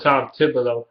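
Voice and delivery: Tom Thibodeau in a Detroit accent, "Thibodeau" said as "Thibolo". Shown as a demonstration. Vlogger hears his own Detroit accent on a name, Detroit accent. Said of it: "It's that Detroit accent I".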